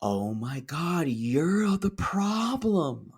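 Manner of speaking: the penny drops mid-sentence; shocked realization. Retold or imitated. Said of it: "I went, gasps".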